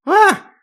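high, loud startled scream; shriek of fright. A narrator's reading. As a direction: shriek as the mirror lights up. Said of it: "взвизгнула от ужаса". (испуганный визг)

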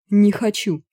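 plaintive moan. A narrator's reading. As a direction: whine it out. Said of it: "застонал карлик".

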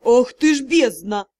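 loud shocked curse. Acted. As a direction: swear out of sheer shock. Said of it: "потрясённо произнёс".

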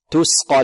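تسقى with a clean thin س before dark ق; light seen, heavy qaf. Shown as a demonstration. Teacher repeats the model, light seen, heavy qaf. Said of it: "تقيق السين وتفخيم القاف".

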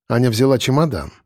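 plain reading voice

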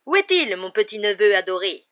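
big-voiced, fawning aunt; gushing aunt. A narrator's reading. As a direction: call out for a darling nephew. Aunt greeting her adored nephew.

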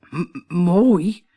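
loud stunned stammer. A narrator's reading. Captain appalled by the bride, stammering. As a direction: stick on the first sound. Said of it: "stamelde de kapitein".

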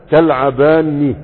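تكتباني spoken slowly, syllable by syllable, stress on the final ني; slow model pronunciation. Shown as a demonstration. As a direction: draw out تكتباني for the class to repeat. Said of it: "فتقول ايه؟". (نطق بطيء واضح لكلمة تكتباني)

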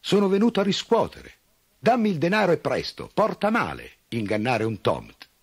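high, loud demanding elf. A narrator's reading. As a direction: shout up at the farmer's window. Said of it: "Il Tomt disse forte".

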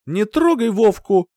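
high, loud shout; mother shouting to protect her son. A narrator's reading. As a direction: yell to keep him away. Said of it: "крикнула она".

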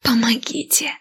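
whispered plea for help; strained whispered cry; squeezed out. A narrator's reading. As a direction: force the word out with no breath. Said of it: "выдавила я из себя".

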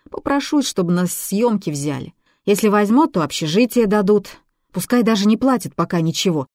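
put-on girl talking herself up, insistent; young girl selling her film dream to a skeptical man; eager girl voice.

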